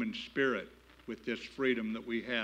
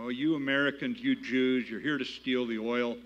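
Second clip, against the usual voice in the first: mock rant; 4 dB louder than usual. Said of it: "goes off on one of those rants".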